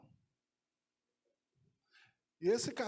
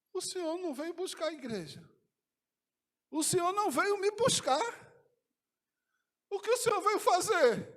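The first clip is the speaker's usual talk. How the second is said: high-pitched plea, building louder; distressed questioning; 9 semitones higher, 6 dB louder than usual. Retold or imitated. Tearful man questioning Jesus in retold vision, high distressed plea. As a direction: plead upward, growing more insistent with each question. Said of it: "e eu já gaguejando, disse".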